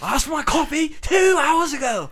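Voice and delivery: hammed-up British diva complaining about his coffee; British accent. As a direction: play a snooty British actor demanding his coffee. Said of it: "He has an accent?".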